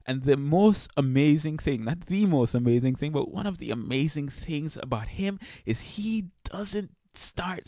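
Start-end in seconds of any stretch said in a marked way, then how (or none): 3.1-7.7 whispering. Real, not acted. Hushed awe about God.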